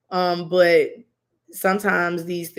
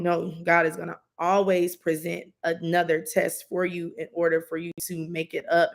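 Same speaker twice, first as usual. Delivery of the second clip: normal talking voice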